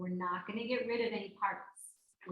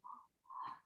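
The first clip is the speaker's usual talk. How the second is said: soft exhaled groan of dismay; quiet, put-on exasperated breath; mock weary sigh; 15 dB quieter than usual. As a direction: let out a hushed "oh" of dread. Acting dismay at returning trouble.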